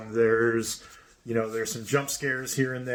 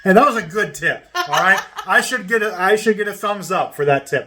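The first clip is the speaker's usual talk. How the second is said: laughing boast; 6 semitones higher, 6 dB louder than usual. Real, not acted. Joking self-praise with laughter.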